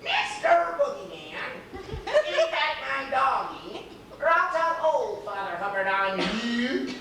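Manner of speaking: slow hammed-up old lady call; drawn-out pleading cry with a laugh; mock shout. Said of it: "she's shouting".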